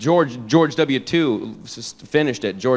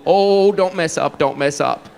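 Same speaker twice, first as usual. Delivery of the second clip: drawn-out anxious plea, sinking; will him on, tense and slow; nervous pleading. Acted. Viewer watching president's speech, nervous pleading. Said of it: "I've ever been nervous for".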